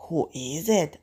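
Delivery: wolf asking in a natural, unraised pitch. Acted. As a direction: ask it lightly voiced, without pitching up. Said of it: "asks the wolf".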